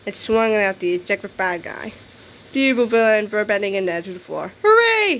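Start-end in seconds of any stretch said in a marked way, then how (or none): 4.6-5.2 high, loud shout of joy; cheer. A narrator's reading. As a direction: cheer with the whole class. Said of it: "shouted everyone".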